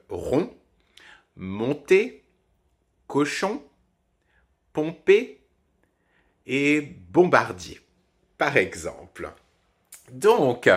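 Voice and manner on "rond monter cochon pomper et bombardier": rond, monter, cochon, pomper, bombardier détachés; mots d'exemple. Shown as a demonstration. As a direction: chaque mot seul, nasale on appuyée. (liste de mots, on bien nasal)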